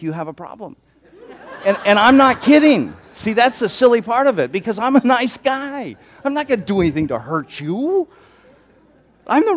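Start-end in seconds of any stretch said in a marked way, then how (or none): 1.6-8.1 laughing. Real, not acted. Joking about his own niceness.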